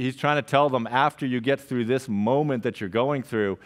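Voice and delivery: normal talking voice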